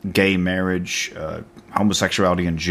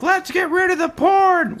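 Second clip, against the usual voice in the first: very high, prim, pearl-clutching; prissy politician voice. Retold or imitated. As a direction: squeak it out primly. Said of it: "they were like".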